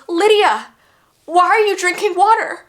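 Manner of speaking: high, loud shocked scold; nurse scolding. Retold or imitated. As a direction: catch the patient red-handed. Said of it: "she goes".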